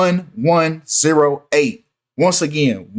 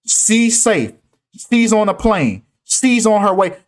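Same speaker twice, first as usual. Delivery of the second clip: higher, stiff mock of Biden's words; mock robotic Biden; 3 semitones higher than usual. Vlogger mocking Biden's coded words, lightly robotic. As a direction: lightly parody a robot reading a statement. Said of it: "This robotic ass way of speaking".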